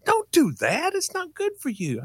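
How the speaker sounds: high-pitched mock maternal warning; mother scolding. Mama warning her child off gas fumes, scolding.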